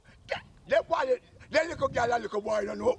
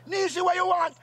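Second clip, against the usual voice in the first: raised voice calling out to her; impatient uncle shouting for his niece; shouted call; 5 semitones higher, 3 dB louder than usual. Acted. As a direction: call her sharply from the yard.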